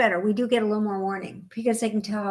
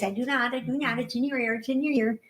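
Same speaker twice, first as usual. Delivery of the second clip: taunting sibling. Retold or imitated. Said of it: "it's a typical".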